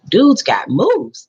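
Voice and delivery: slow, drawn-out impressed remark; impressed thought. A narrator's reading. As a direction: stretch it out, clearly impressed.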